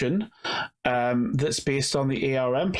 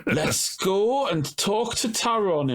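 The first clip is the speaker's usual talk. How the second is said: robot voice; 6 semitones higher, slower than usual. Pretend. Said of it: "in my incredible robot voice".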